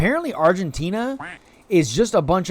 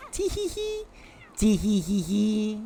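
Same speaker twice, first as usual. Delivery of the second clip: mock giggle; 6 semitones higher, 6 dB quieter, slower than usual. Giggling at sound alerts.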